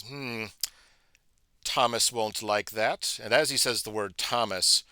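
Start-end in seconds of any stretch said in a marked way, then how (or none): 0.0-3.2 slow, formal owl speaking with dignity; a lightly voiced stately owl, slow and courteous.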